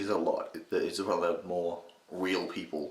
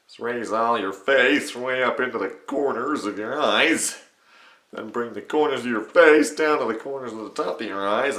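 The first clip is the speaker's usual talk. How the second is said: loud, raised nasal impression held throughout; Patrick Warburton; 4 semitones higher, 7 dB louder than usual. Shown as a demonstration. Tutor coaching face position in character, loud Warburton impression. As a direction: instruct in the mid-range cartoon voice. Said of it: "simple mid-range one of".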